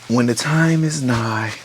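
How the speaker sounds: slow, grand prince's decree, lightly done; mock royal proclamation. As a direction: proclaim it slowly like a storybook prince. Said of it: "Then he's just like".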